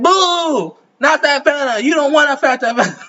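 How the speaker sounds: high mock boo and protest; booing crowd. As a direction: imitate a crowd's objection.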